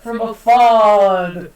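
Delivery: lightly voiced delighted queen; a hint of a gushing royal. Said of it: "And the queen's just like".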